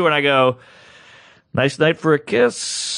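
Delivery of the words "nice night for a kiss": slow, suave leading-man line; fifties movie smoothie. Acted. Comic picking up a woman at New Year's, a hint of old-movie suave. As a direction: lightly play a corny fifties romantic lead. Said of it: "out of a bad fifties movie".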